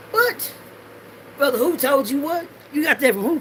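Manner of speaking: sharp high yelp of disbelief; incredulous. Acted. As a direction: shoot high, can't believe it. Incredulous at brother's source.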